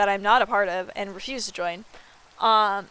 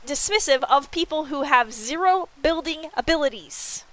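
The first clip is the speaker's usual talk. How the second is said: slow, higher mock-offended complaint; retold mock outrage; 5 semitones higher, 3 dB louder, slower than usual. Streamer retelling her complaint about the ban to her friend, mock outrage. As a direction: lay on a whiny mock grievance. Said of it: "I'm like".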